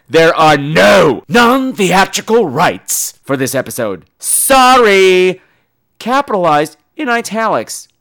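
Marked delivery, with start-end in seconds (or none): 0.1-5.4 curt official reply. Retold or imitated. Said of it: "simply says".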